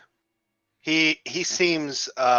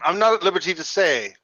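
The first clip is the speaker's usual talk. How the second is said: mild shout; 4 semitones higher, 3 dB louder than usual. Acted. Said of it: "I'm shouting everything he says".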